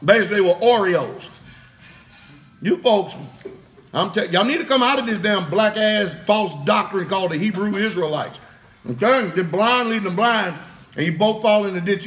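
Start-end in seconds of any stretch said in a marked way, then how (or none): 2.6-12.1 passionate preaching. Real, not acted. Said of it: "I get so passionate about this stuff".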